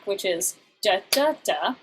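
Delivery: da da da, middle beat stressed; amphibrach rhythm. Shown as a demonstration. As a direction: tap out the amphibrach, weak strong weak. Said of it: "the amphibrach".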